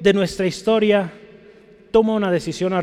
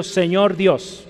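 slow reverent; much slower than usual. Retold or imitated. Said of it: "se acercó a él diciendo".

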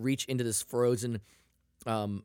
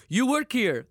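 accusing stranger; 9 semitones higher, 5 dB louder, slower than usual. Retold or imitated.

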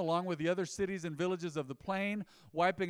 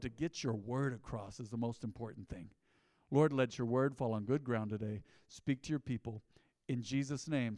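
hushed leading prayer; 2 semitones lower than usual. Real, not acted. Pastor leads prayer.

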